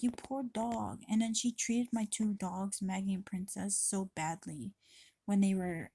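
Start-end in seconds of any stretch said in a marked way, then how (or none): 0.0-1.0 tender pity. Retold or imitated. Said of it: "I'm like".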